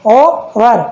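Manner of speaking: "ओवर" in two parts, no h; split syllables. Shown as a demonstration. Teacher shows how to read it, "ओवर" in separated syllables. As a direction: break "ओवर" into o and var. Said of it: "कैसे पढ़ते इसे".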